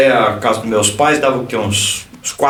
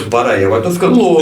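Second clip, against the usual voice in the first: quick words through a laugh; laughing disbelief; 4 semitones lower, much faster than usual. Retold or imitated. Pastor retells doubting the Spirit's voice, laughing. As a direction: laughs off his own doubt. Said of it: "Eu disse".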